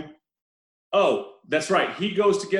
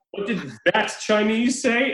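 slow, higher mock relative; casually racist relative; 4 semitones higher than usual. Repeating the film line to co-hosts, mock-oblivious. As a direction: draw it out like an oblivious uncle. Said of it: "The way your casually racist relative".

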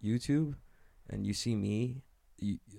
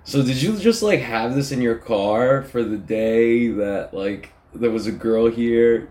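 teasing date. Retold or imitated. Date mocking his messy car, mildly voiced. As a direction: needle him about the messy car. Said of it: "And she's like".

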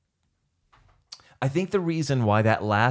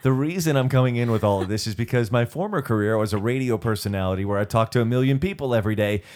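radio host voice; 5 dB louder, faster than usual. Pretend. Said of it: "As if I'm in a radio studio".

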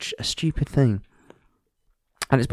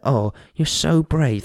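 mocking patronising voice; 4 semitones higher, slower than usual.

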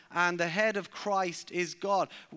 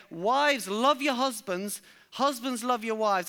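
emphatic; 3 semitones higher than usual. Retold or imitated. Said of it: "It's as if Paul would say".

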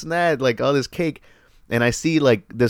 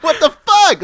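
laughing disbelief; 14 semitones higher, 4 dB louder, slower than usual. Retold or imitated. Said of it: "So I'm like".

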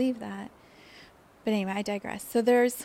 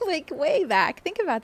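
laughing; 8 semitones higher, 7 dB louder than usual. Real, not acted. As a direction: chuckle while saying it. Laughs about dad's early tech work.

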